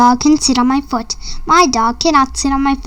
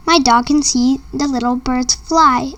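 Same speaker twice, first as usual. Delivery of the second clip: usual speaking voice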